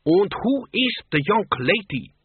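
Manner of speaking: high, slow Transylvanian countess; hammed-up Transylvanian lady vampire; Transylvanian accent. A narrator's reading. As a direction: put on a grand Transylvanian accent. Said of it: "rather than some Transylvanian fastness".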